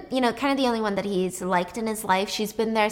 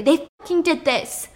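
mild hysterical scream; 7 semitones higher, 4 dB louder than usual. Retold or imitated. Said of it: "screaming hysterically".

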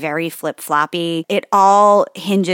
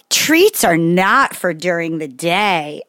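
put-on bossy kid; slower than usual. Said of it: "hearing you imitate him".

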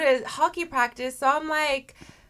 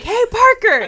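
re-enacted call to a kid, raised and louder; 6 semitones higher, 5 dB louder than usual. Mom calls Parker to deal with the lizard, calling out. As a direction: call over to the kid, pitched up. Calling her child over.

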